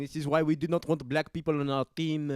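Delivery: loud, high mock French fan; French accent. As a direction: rant like a furious French supporter. Mocking booing French crowds.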